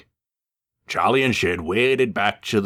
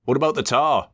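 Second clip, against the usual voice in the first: calling out; 9 semitones higher, 3 dB louder than usual. Acted. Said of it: "he called".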